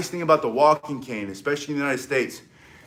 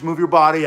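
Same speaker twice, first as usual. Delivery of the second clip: "body" stressed and a touch louder; emphasis on body; 5 dB louder than usual. Shown as a demonstration. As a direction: punch the word "body". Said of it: "coach drilling".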